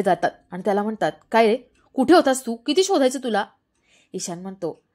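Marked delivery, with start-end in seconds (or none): 1.3-3.4 scolding uncle. Acted. Uncle scolds lost boy.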